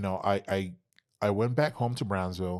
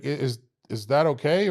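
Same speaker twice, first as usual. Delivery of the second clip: high, innocent mock question; naive asking; 6 semitones higher, 5 dB louder than usual. Asking the coach, in a high naive voice. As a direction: play dumb, hopeful, rising up.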